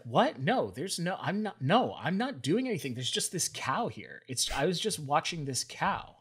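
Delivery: a husband caught red-handed, babbling excuses; flustered denial. Acted. Zeus caught by Hera, protesting innocence in a flustered voice.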